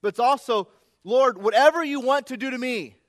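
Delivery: loud, rising preacher's climax; preaching at full force. Acted. Pastor pressing his congregation, building to a loud preaching peak. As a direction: drive the question home to the congregation.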